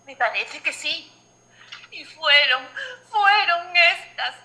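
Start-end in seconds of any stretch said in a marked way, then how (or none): 1.9-4.3 loud lament. Acted. Mourner lamenting the dead.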